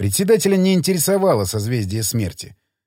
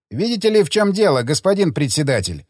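academic voice. Acted. Academic answers chairman.

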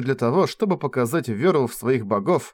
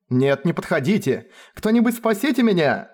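mock cry for help; 6 semitones higher than usual. Ferris plays the victim.

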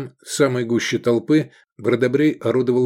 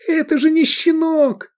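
much higher, louder outraged yell; raging; 5 dB louder than usual. Acted. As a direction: rage at the injustice. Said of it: "бушевал Эдик".

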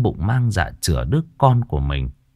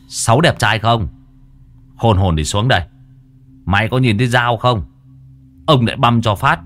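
mock thug threat; 2 semitones higher than usual. Exorcist taunting the ghost, mock thug swagger. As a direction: bark the threat like a cocky street boss.

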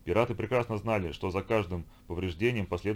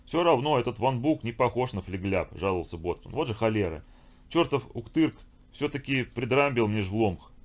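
raised, complaining grumble, slowing at the end; grumbling boatswain; 3 semitones higher, 4 dB louder than usual. Acted. Boatswain grumbles to Lisha about bad trades, complaining. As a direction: gripe like a sore old sailor. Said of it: "слушать его ворчание".

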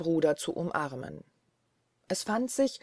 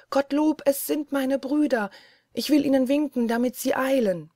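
higher, louder joyful cry; relieved joy; 7 semitones higher, 4 dB louder than usual. Acted. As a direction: cry out with relief, brothers are coming. Wife sees her brothers. (erleichterter Jubel, höher und lauter)

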